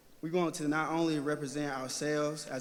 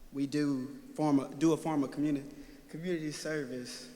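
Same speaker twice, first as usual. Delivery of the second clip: stage fright. Real, not acted. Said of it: "I'm a little nervous".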